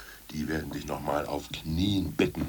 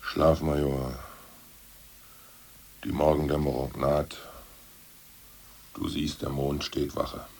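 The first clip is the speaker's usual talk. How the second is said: slow, measured verse reading; poem recitation; 3 semitones lower, slower than usual. Acted. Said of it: "Hör doch endlich mit diesen Gedichten auf".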